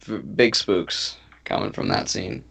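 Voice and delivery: hushed, breathy whisper. Real, not acted. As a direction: whisper it under your breath. Whispered aside.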